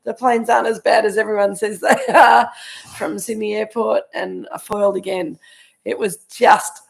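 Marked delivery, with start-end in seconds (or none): 0.0-4.0 triumphant. Retold or imitated. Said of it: "I was like".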